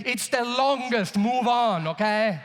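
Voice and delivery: imitating a cocksure know-it-all; confident man's dismissal. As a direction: answer like the question is stupid, full of certainty. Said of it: "always very, very confident when he gives me".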